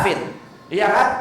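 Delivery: normal talking voice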